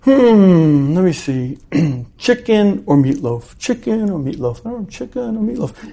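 wife dithering aloud to herself; deliberating. Acted. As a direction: mull two options over under your breath. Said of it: "she's deciding supper for that evening".

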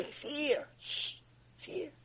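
high, hushed shushing whisper. Acted. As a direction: whisper and shush the other person. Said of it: "Why are you whispering?".

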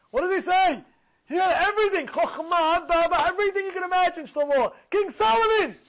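high, driving sermon delivery; impassioned preaching. Acted. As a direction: preach it insistently, lifting each rhetorical question. Preaches at full force.

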